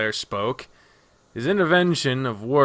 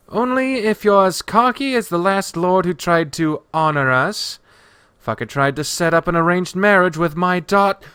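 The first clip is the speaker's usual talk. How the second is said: a touch of anger, pitched up and cut off; heated retort; 6 semitones higher, 4 dB louder than usual. Acted. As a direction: answer back hotly, breaking off mid-word. Nadja angrily answers, then cuts off.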